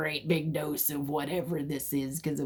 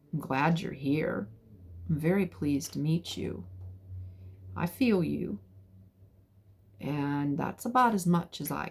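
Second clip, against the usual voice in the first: calm and respectful; 4 dB quieter than usual. Retold or imitated. Silently addressing the spirit.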